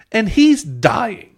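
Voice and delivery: high, slow mock drama; mock dramatic. Real, not acted. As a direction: stretch it out theatrically. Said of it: "mock dramatic".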